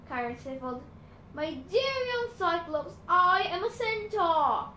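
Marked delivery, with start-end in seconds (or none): 1.3-4.7 dignified centaur. A narrator's reading. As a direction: gently correct him with dignity. Chiron corrects Tyson.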